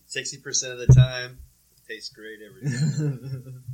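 loud proud boast, slowing down; Anchorman quote. Retold or imitated. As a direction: deliver it like a smug anchorman.

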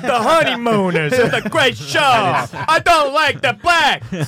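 slow, put-on grumpy old-timer; mock bigot voice. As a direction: drawl it like a bitter old man. Mocking Cumia's views.

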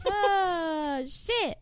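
hammed-up wail, pitched high; mock crying. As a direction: fake sob of despair. Mock dismay at the show.

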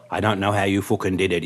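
rough, put-on Irish accent. Drunk passenger repeating his accusation, Irish accent. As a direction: imitate the Irish passenger insisting. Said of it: "I'll do this in the Irish accent".

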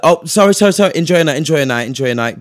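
hammed-up flustered manager backing off; the club manager hastily apologising, mock flustered and loud; mock apologetic manager. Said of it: "She's like".

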